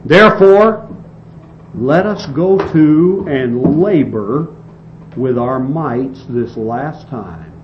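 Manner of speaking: slow, weighty scripture reading; solemn slow reading from the book. Acted. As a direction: read it out slowly, every word weighed. Reads scripture slowly.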